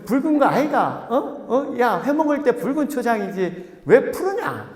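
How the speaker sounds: high, insistent Gyeongsang dialect; Gyeongsang student. Acted. Gyeongsang student disputing the green pasture, insistent Gyeongsang dialect. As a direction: argue it with Gyeongsang lilt, pitched high. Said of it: "경상도 학생들이 뭐라 그래요?".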